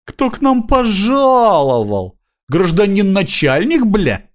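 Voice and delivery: high, slow mocking tramp drawl; drunk tramp voice. A narrator's reading. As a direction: greet the cop like a sly drunk. Drunk tramp greets cop mockingly.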